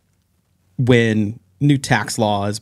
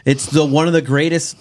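higher, mock festive; sarcastic; 5 semitones higher than usual. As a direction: fake celebration of tax day. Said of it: "I'm doing this, like, sarcastically".

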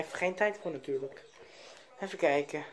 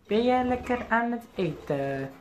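slower sing-song with stress on jij; 4 semitones higher than usual. Real, not acted. Owner cooing to his eating parakeet, slow sing-song. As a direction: drag out jij, coaxing the bird in a higher slow voice. Repeats question in pet voice.

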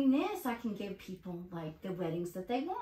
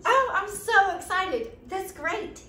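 squealing with delight; high thrilled gush; excited; 10 semitones higher, 9 dB louder, slower than usual. Acted. Gets the job offer call.

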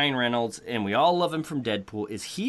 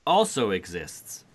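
unenthusiastic, negative; 4 dB louder than usual. Real, not acted. Host gives verdict on the trailer just shown, unenthusiastic. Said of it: "you sound like you're negative towards it".

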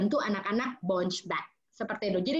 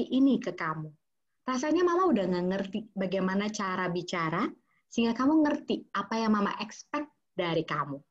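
firm calm rebuke. Shown as a demonstration. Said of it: "Dibandingkan begini".

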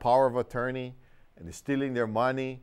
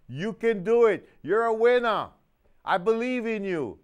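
higher, louder cheering parent; encouraging parent; 4 semitones higher, 4 dB louder than usual. Retold or imitated. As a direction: pump the kid up like a loving, eager parent. Loving parent encouraging the child.

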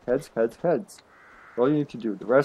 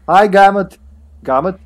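name read as GAMUT with a Serbian accent; 7 semitones higher, 10 dB louder than usual. Real, not acted. Misreading a chatter's name aloud, Serbian accent. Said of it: "read that with Serbian accent".

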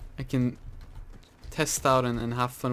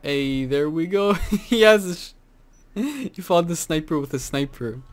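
excited laughing cheer; 5 semitones higher, 8 dB louder than usual. Real, not acted. Teammate wins fight.

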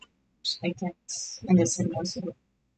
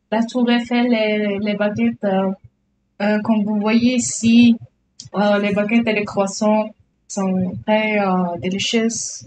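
hammed-up French accent with hesitant euhs; lightly put-on French tourist accent; mock French accent. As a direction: play a cartoon Frenchman showing off. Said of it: "I can pull off a French accent".

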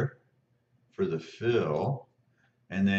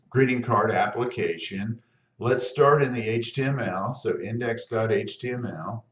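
husky, catching throat; frog in throat; 3 semitones higher, 5 dB louder than usual. Real, not acted. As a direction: talk past a tickle in the throat. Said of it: "I've got a little frog in my throat today".

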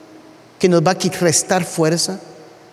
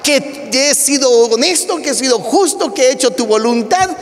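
pleading prayer; 3 semitones higher than usual. Retold or imitated. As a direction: pray like a desperate king on his sickbed. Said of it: "empieza en su oración".

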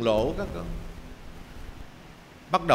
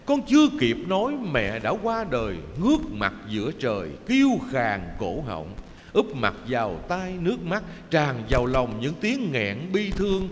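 choked sobbing lament. Acted. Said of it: "nó nức nở nghẹn ngào".

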